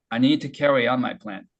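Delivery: very slow, words linked and drawn out; slow model read for students to copy; slow demo. Shown as a demonstration. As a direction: drag the whole sentence slowly. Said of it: "자, 천천히 해볼게요".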